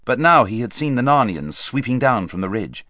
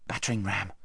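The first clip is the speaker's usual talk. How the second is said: very soft, hushed whisper; 2 semitones lower, 11 dB quieter than usual. A narrator's reading. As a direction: whisper it to a companion. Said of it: "whispered Corin".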